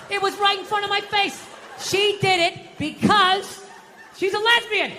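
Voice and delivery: high, insistent cry of discovery; exclaimed revelation. Acted. Comic announcing the obvious answer to the crowd, high emphatic exclamation. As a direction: pitch it way up and stretch the reason out. Same realisation repeated, now exclaimed.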